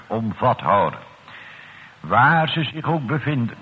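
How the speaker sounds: solemn, measured pulpit prayer; earnest church prayer with deliberate pauses between petitions; public prayer. Acted. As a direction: pray aloud for the congregation in rolling phrases. Leads congregational prayer.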